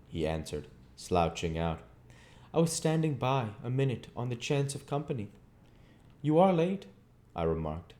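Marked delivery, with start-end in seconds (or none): 2.5-5.3 1 voiced slouching labourer. A narrator's reading. Orlick voiced in the story. 6.2-6.8 put-on 1 raised young voice. A narrator's reading. Pip remarks to Orlick.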